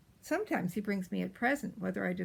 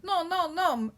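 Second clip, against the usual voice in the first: high, loud scolding yell; 7 semitones higher, 5 dB louder than usual. A narrator's reading. Nanny coming in to stop the quarrel, high yell. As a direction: burst in with a high, emphatic telling-off. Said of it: "Nanny comes in yelling".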